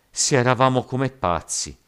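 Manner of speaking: high, loud excuse; loud protest. A narrator's reading. Rioter excusing the drunken killing, protesting loudly. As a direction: protest your innocence at full voice.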